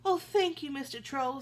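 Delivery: a relieved goat thanking the troll, high and bright; middle billy goat. Acted. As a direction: squeak out your thanks like a relieved young goat. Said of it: "said mid-, middle billy goat".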